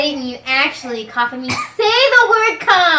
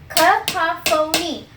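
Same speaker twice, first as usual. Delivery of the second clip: slow demo; slower than usual. Shown as a demonstration. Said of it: "to the next word".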